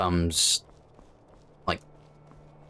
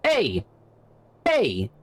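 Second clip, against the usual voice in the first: shouting; 9 semitones higher than usual. Real, not acted. Yelling at chat.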